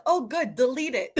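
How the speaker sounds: loud laughing relief. Retold or imitated. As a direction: laugh it off, glad it's gone. Relieved her vocals are cut.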